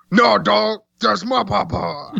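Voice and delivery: Cartman impression. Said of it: "the speaker doing Cartman".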